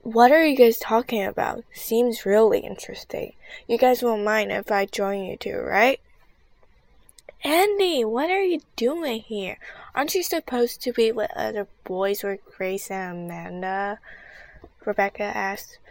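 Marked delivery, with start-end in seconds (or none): 0.0-6.0 loud. Acted. Andy butting in loudly. 7.4-14.0 surprised. Acted. Surprised at Andy following.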